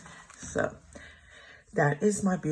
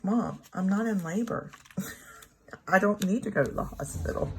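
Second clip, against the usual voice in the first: laughing denial; 5 semitones higher than usual. Retold or imitated. Quoting her younger self's denial.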